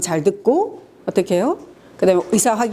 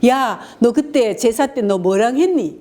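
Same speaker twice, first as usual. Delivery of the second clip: mock quarrel; 3 semitones higher, slower than usual. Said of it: "계속 싸우는 거예요".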